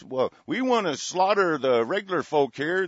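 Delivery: a lightly put-on smug businessman voice; mock businessman. Host mocking a businessman for his listeners, a light smug put-on voice. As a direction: sneer it like a greedy businessman. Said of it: "This is the businessman talking".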